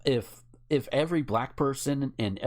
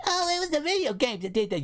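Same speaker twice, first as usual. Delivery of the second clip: mocking quote; faster than usual. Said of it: "guess who decided".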